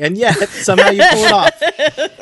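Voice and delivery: high, loud laughing delivery; laughing tease. Real, not acted. Teasing laughing compliment.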